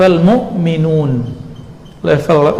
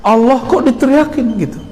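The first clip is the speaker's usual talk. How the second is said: mildly irked, higher-pitched complaint; mock annoyance; 6 semitones higher than usual. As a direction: imitate a peeved listener, pitched up. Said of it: "dia kesel".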